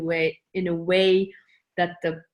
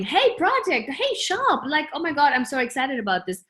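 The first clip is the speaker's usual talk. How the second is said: high, bubbly hello to the project; excited greeting; 5 semitones higher than usual. Retold or imitated. Greeting her shop project like a friend, high and excited. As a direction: greet it like an old friend, pitched well up.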